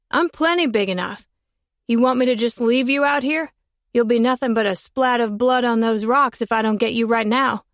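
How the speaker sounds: put-on boy calling up the tree, unbothered; curious boy. Boy asking the girl up the tree, lightly voiced.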